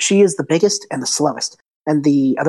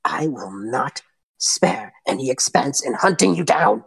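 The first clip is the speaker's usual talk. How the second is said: villain's threat; 3 semitones lower than usual. Acted. A villain hissing threats at her hired goons. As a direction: threaten them in a hushed villain voice.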